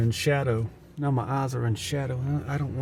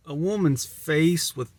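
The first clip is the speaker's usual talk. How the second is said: woman voice; 5 semitones higher, 3 dB louder, slower than usual. Pretend. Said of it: "my beautiful woman voice".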